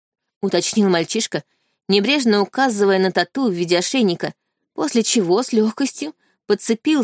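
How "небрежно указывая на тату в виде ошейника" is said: plain reading voice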